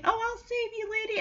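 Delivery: squeaky mock-brave pup; heroic little puppy. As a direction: play the puppy gallantly coming to the rescue. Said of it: "It's all like".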